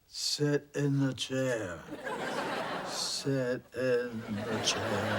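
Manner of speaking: slow, drawn-out ghostly command; spooky ghost voice. Acted. Ghost ordering a woman into her chair, slow spooky voice. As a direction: intone it slowly like a haunting ghost. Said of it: "I'm trying to sound like a ghost".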